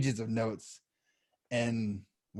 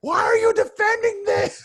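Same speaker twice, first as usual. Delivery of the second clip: mock exasperated shout; 8 semitones higher, 4 dB louder than usual. Asking the co-host why he defends the movie, shouting in mock disbelief. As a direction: pitch shooting up into a yell.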